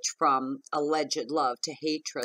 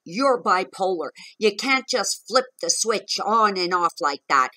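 raised, higher mock yell of an angry partner; retold screaming; 3 semitones higher, 4 dB louder than usual. Retelling her partner screaming at her, higher and louder. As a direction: shout it back as he did, pitched up. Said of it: "start screaming".

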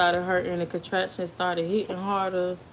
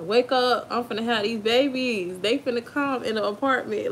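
retold urgent plea, higher pitched; urgent wake-up call; 4 semitones higher than usual. Mother-to-be waking baby daddy as labor starts, urgent. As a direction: re-enact rousing someone in a hurry.

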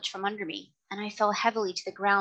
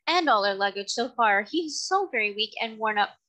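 put-on young girl pleading; 4 semitones higher than usual. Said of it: "she said".

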